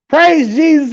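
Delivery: high, sing-song praise; a hammed-up church lady calling out; mock church praise; mock churchgoer. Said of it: "And they were like".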